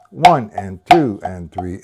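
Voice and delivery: slow count. Shown as a demonstration. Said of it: "It's simple".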